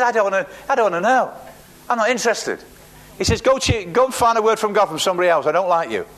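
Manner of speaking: a hint of a huffy prophet refusing the king; scornful refusal. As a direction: wave him away, not interested. Preacher voices Elisha's refusal.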